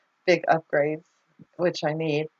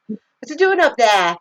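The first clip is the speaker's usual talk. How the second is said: louder, higher mock Yorkshire accent; amateur go at calling out in Yorkshire; attempted Yorkshire accent; 6 semitones higher, 6 dB louder than usual. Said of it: "I don't know how to do her accent".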